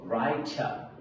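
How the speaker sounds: রাইটার as "rai-ta", no final R; silent final R. Shown as a demonstration. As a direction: drop the closing R of রাইটার. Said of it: "কি বলবো".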